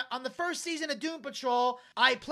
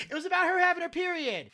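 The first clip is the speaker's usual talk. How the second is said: put-on high-pitched kid protest; high, insistent mock panic; mock screaming; 8 semitones higher than usual. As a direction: imitate a mortified boy blurting it out.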